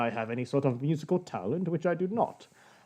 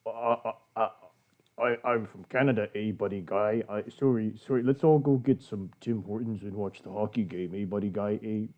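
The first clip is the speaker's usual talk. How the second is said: put-on Canadian accent; 5 semitones lower than usual. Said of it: "putting on your, your thickest, heaviest Canadian accent".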